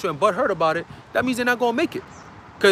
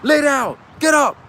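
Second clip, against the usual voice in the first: higher, barked orders in quick succession; shouted commands; 5 semitones higher, 3 dB louder than usual. Acted. Troops giving commands during a raid, shouted orders. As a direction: order people about like a raiding trooper. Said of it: "hearing people giving commands".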